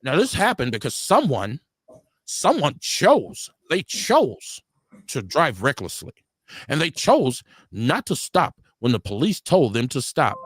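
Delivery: slow, drawn-out official tone, stretching chose; lightly voiced stiff city official; mocking the chief. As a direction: parody a stiff politician explaining. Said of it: "I love how he says".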